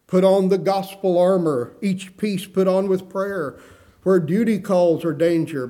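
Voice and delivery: measured, emphatic reading of verse; hymn recitation. Acted. Preacher quotes a hymn to the congregation, declaimed as verse.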